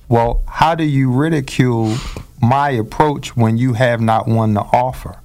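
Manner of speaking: measured, poetic delivery of a reproach; gently theatrical, Shakespearean-like phrasing; poetic, almost Shakespearean. Retold or imitated. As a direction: recite it like a line from Shakespeare. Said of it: "I try to say it poetically like that".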